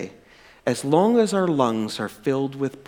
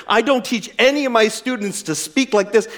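mild fury; 5 semitones higher than usual. Retold or imitated. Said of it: "He's so furious".

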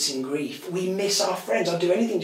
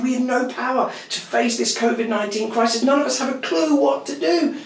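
Boris Johnson impression; 8 semitones higher, faster than usual. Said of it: "This is like Boris Johnson".

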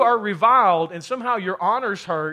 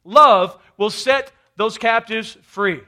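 building from earnest to a louder, higher shout; impassioned vow, growing louder and higher; love's defiant cry; 5 semitones higher, 10 dB louder than usual. Acted. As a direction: swell into a full preaching roar on love you. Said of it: "Love says".

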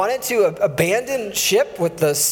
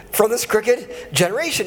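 Southern drawl; 3 semitones higher than usual. Shown as a demonstration. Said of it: "I'd like to read it in the southern drawl".

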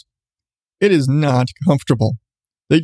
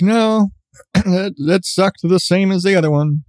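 wry complaint; 5 semitones higher than usual. Retold or imitated. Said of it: "We're like".

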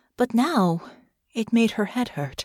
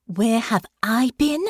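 whispered, sharp snap; snapped; 5 semitones higher than usual. A narrator's reading. Annoyed companion snaps back her question in a harsh whisper. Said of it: "Delphinia snapped".

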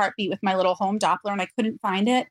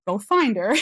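tearful. Real, not acted. Grieving mother recalling her words to a dying relative, tearful. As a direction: voice rising and breaking into tears. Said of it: "I still cry when I tell that part".

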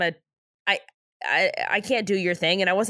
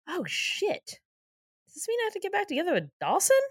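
panicked; 9 semitones higher, 4 dB quieter than usual. Retold or imitated. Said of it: "a shot of Joey being like".

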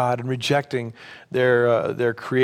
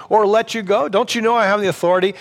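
exasperated, rising higher and faster; a governor losing patience, pushing the question; frustrated Pilate; 5 semitones higher, faster than usual. Retold or imitated. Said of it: "And Pilate is frustrated".

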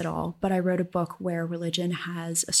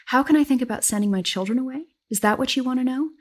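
sharp, quick retort, pitched up hard; hard edge; 6 semitones higher, 4 dB louder, faster than usual. Acted. Kate rounding on her sister, a sharp hard-edged retort. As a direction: snap it back with a hard edge. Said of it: "The hard edge to Kate's voice".

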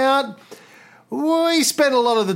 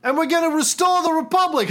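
roaring rallying speech. Retold or imitated. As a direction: rouse the troops with a cheer. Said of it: "He said".

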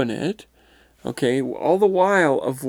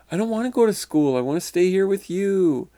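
higher, quick schoolboy protest; 6 semitones higher than usual. Retold or imitated. Schoolboy's spirit refuses to go back, protesting in a higher kid's voice. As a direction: plead like a reluctant elementary school kid. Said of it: "still in this schoolboy mindset".

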